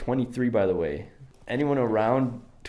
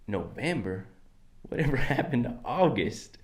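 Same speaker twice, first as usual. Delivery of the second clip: softer, looser Southern twang with a laugh; relaxed cowboy accent; 4 dB quieter than usual. Pretend. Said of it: "Just gotta relax the mouth".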